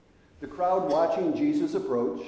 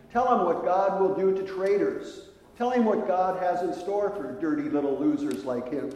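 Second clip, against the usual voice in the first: jeering crowd; 3 semitones higher, 4 dB louder than usual. Retold or imitated. Crowd jeering the tax collector.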